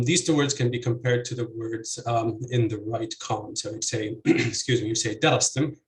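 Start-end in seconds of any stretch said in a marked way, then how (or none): 5.2-5.8 DArastim, first syllable stressed. Shown as a demonstration. Lecturer contrasting right column, darastim stressed on DA. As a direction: hit DA in darastim. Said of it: "with stress on the first syllable".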